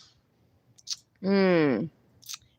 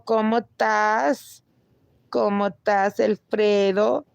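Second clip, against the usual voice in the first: a hammed-up Spanish accent; mock Spanish accent. Greeting chatter in mock Spanish.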